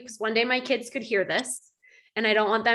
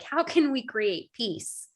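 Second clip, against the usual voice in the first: serene husband; slower than usual. Retold or imitated. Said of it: "he's like".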